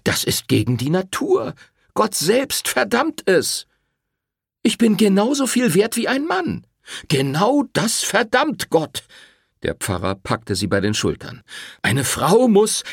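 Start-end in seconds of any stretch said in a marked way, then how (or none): 0.0-9.0 heated argument. Acted. Priest and Rosetta argue. 11.8-12.8 high, slow, preaching tone; stern priest. Acted. Priest starts his old refrain.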